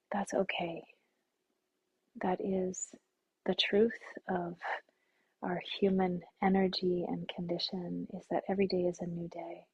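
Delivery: calm, unhurried meditation guide with long pauses; guided meditation. Acted. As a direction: settle listeners gently into stillness.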